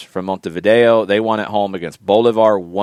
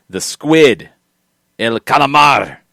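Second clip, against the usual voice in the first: hyped announcement; 5 semitones higher, 6 dB louder, slower than usual. Acted. Announcing the team nickname.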